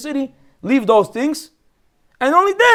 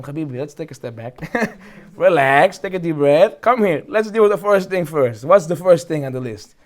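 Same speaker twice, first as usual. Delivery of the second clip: calm reassurance; 4 semitones lower than usual. Retold or imitated. Rabbi calming the young man.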